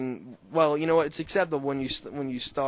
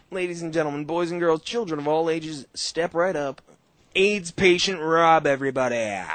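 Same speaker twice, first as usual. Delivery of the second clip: ringmaster calling the crowd; grand entrance announcement; 2 semitones higher, 4 dB louder than usual. Pretend. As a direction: step right up barker voice. Circus barker intro for listener.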